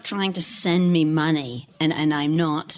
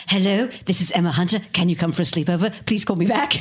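put-on polite child caller. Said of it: "so I'd be like".

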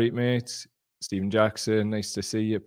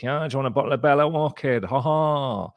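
mock Geordie local; 6 semitones higher, 3 dB louder than usual. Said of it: "Imagine that happening in Gateshead".

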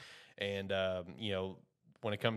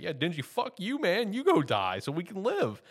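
higher, louder mock yell at Denji; 10 semitones higher, 6 dB louder than usual. Other guy turns on Denji, a higher, louder mock yell. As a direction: bark it like a selfish coward. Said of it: "he's just like".

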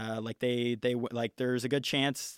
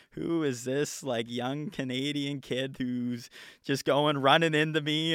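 higher, slowed, put-on puzzled voice; imagined bewildered champion; 4 semitones higher, 4 dB louder, slower than usual. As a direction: play the baffled champ staring at this kid. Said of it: "And he probably is like".

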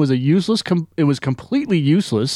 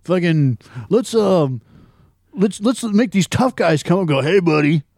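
mock tough guy; 4 semitones higher than usual. Podcaster mocking the script with a lightly voiced tough guy. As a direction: ham up a pushy bar thug. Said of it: "punched up the script and said".

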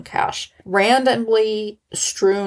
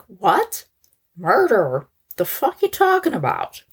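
shocked outrage; 3 semitones higher than usual. Retold or imitated. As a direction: react as if falsely accused, rising into indignation. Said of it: "you'd think they'd be like".

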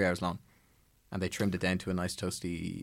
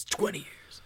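"twenty" drawn out and pitched higher; stress on "twenty"; 10 semitones higher, slower than usual. Real, not acted. Contrasting with the original's fifteen, "twenty" drawn out high. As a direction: stretch "twenty" out, lifted for effect. Stressing the remake's bigger figure.

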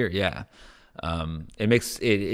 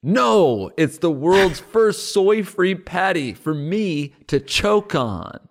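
excited ad read; 5 semitones higher, slower than usual. Acted. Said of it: "let's pretend we go to commercial".

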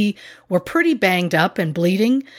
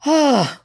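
loud sigh; 8 semitones higher, 3 dB louder than usual. Real, not acted. Sighs before resuming the story.

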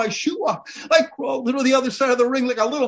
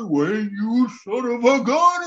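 angry wrestler; slower than usual. Retold or imitated. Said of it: "he's angry".

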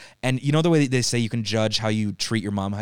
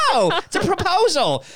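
very high, louder gushing American; mock American tourist; 6 dB louder than usual. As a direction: tease tourists with a squealy American voice.

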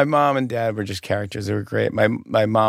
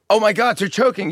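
high mock-panicked exclamation; imitated alarm, voice pitched way up; alarmed bystander; 10 semitones higher than usual. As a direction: cry out like a shocked onlooker. Woman alarmed at choking diner.

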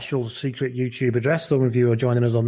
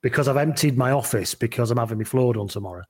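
echoey room; 3 semitones lower than usual. Real, not acted. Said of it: "if I sound a little bit echoey".

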